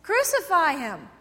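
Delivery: crucify call. Retold or imitated.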